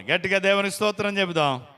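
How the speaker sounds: rally the church to praise God; call to praise. Real, not acted. Preacher calls for loud praise. (గట్టిగా స్తుతికి పిలుపు)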